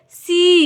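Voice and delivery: सी with a drawn-out ee; long ee. Shown as a demonstration. Teacher demonstrating double E, long-vowelled सी. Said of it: "इसका उच्चारण जो है ना थोड़ा लंबा होगा".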